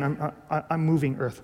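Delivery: a nervous student mumbling his answer to Luther; mumbled. Acted. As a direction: mumble it under your breath. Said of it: "you kinda mumble again".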